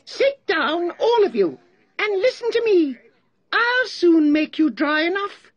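high, loud mouse calling for attention; squeaky-high voice of command; called out. A narrator's reading. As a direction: call the room to order in a high mouse voice. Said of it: "called out".

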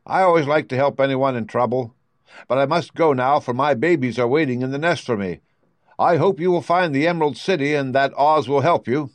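a hint of a kindly mother bird; kind stork. Stork speaks in story.

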